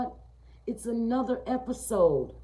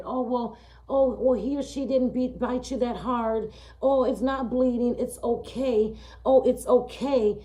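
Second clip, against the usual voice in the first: high, loud, dismissive reassurance; placating dog owner; 5 semitones higher, 6 dB louder than usual. Retold or imitated.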